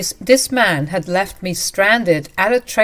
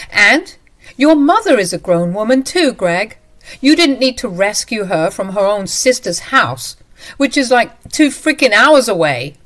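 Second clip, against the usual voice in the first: louder and higher, biting; angry retort; 4 semitones higher, 6 dB louder than usual. Acted. Wife arguing about his mother, louder and biting. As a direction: cut him down.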